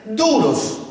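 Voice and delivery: ordinary talk, nothing marked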